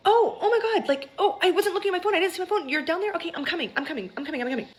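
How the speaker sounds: high, flustered imitation of sister; mock a panicked, apologetic scramble; high-pitched, scrambling excuses. Retold sister caught off guard on phone.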